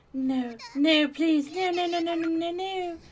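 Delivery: rising high, loud frantic no's; panicked pleading. Acted. Mayu alone in the dark, rising panicked pleading.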